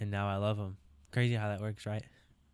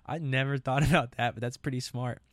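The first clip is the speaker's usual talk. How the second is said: laughing; 3 semitones higher than usual. Retold or imitated. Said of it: "And I was like".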